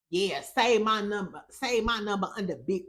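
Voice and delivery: a first, off take of the guy's line; first try at his voice. Retold or imitated. Vlogger's first go at quoting the Nigerian man, a weak imitation. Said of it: "no, that ain't how he sound".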